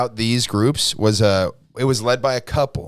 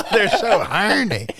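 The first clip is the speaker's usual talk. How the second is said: laughing; 12 semitones higher, 3 dB louder than usual. Real, not acted. Joking, laughter heard.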